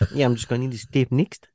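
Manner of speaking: light Australian twang; Australian accent. Acted. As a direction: say it with a hint of Australian. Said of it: "That sounded like your Australian accent".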